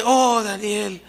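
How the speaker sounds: a hint of a mourning king calling down into the pit; grieving king. King mourns Daniel at the lions' den, mild lament. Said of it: "la idea es esta, así como".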